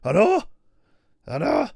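bouncy northern cookery-show host; high Hairy Biker voice. Pretend. Playing one Hairy Biker to the other, high and loud.

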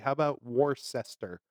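Worcester sounded out as "war-sester"; phonetic pronunciation. Shown as a demonstration. Second guess at the spelling for a co-host, Worcester as "war-sester". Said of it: "That would be the phonetic way".

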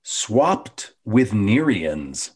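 slow poem recital. Acted. Reciting her episode haiku.

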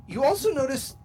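usual speaking voice

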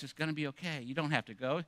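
quiet, soothing whisper-like coaxing; a hint of a sly tempter murmuring; soft tempting voice. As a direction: lull them into giving up, softly. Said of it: "we start hearing that voice".

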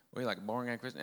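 put-on half-hearted Rhode Island accent; faint, quick stab at Rhode Island speech; attempted Rhode Island accent. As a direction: try a Rhode Island accent, not quite getting it. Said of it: "can't even do a Rhode Island accent".

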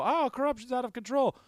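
high, mock-earnest official; pompous official voice. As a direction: announce reform with fake zeal. Officials voiced proposing reform.

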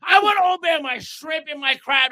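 yelling. Real, not acted. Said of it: "Why are you yelling?".

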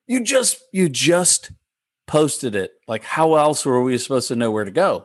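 retold exasperated complaint; indignant protest. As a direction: protest in mock disbelief to the gate agent. Retold protest to gate agent.

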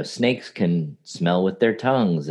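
slow, unhurried nature-documentary narration; lightly voiced David Attenborough, calm and even; measured wildlife narrator calm. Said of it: "It's very calm".

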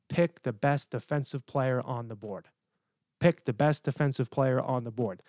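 slow, deliberate stress on "Pick the best defensive player"; "best defensive player" spelled out firmly and evenly; with conviction. Real, not acted. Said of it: "Say it with conviction".

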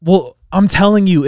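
normal talking voice

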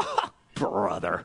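low, slow, fed-up groan of disbelief; exasperated doubter. Acted. Preacher voicing a doubter, a low fed-up groan. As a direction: roll your eyes and moan it low.

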